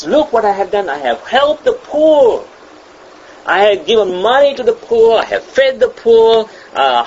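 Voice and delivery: high, proud voice listing their good deeds; a preacher hamming up a smug do-gooder; boastful self-righteous person. Retold or imitated. Preacher mocking a self-righteous churchgoer, smug bragging. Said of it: "They say".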